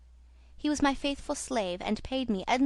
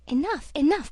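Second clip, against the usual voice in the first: a raised, higher cry of enough; cried out; 5 semitones higher, 5 dB louder than usual. A narrator's reading. Young man stops Christine's story, crying out loud. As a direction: cry out to stop her story. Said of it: "cried Raoul".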